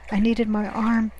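ordinary delivery, nothing marked

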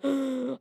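a short, soft, retold gasp of panic; mock shocked gasp. Mock gasp, imitating her old panic at a mean comment. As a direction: gasp like a hurtful comment just landed. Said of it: "my heart starts beating really fast".

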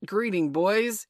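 loud, drawn-out hail; cry. A narrator's reading. Peter greeting his band on return, crying out. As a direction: hail them high and slow. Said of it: "he cried".

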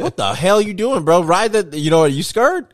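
high, loud, exasperated yell at a driver; mock road rage yell. Driver yelling at a car that cut in, high and loud. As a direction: shout at the guy hogging the middle lane.

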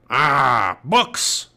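disgusted pirate. Acted. Captain Bones hearing of books, disgusted pirate growl. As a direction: spit it out in disgust.

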